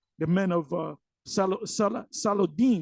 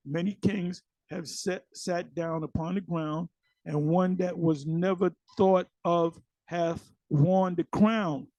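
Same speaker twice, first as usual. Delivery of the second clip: slow, measured scripture reading; slower than usual. Acted. Teacher reading a verse in context for viewers, slow scripture reading. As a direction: read the verse out slowly, phrase by phrase.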